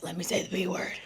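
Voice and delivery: soft, secretive imitation of a kid; softly voiced begging; hushed child's plea. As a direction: plead it under your breath. Child begging to cuss, quietly.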